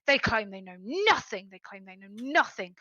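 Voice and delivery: a touch of bitter anger, leaning on NOTHING; mildly embittered dwarf; bitter and angry. Acted. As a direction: spit out the repeated complaint. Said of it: "he gets bitter and angry".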